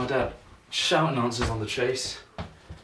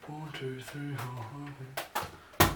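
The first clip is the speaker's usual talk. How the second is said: counting under breath; 7 dB quieter, much slower than usual. Real, not acted. Counting catches quietly.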